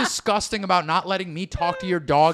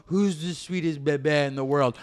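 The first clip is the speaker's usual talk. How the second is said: cooing at a pet, lower and softer; baby talk to a pet; 4 semitones lower, 3 dB quieter than usual. Retold or imitated. Grabbing a dog's jowls, cooing baby talk. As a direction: coo it like you're cuddling a puppy. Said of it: "Let me go".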